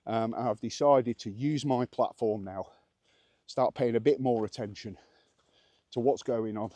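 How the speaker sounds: slightly breathless while walking uphill; out of breath. Real, not acted. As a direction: talk through light panting from the climb. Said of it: "I'm a bit out of breath walking up this hill".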